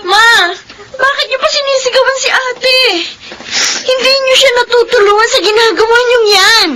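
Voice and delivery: crying, pleading with mother; tearful protest. Acted. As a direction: defend her sister while crying. Sister defends sister against mother. (umiiyak na pakiusap)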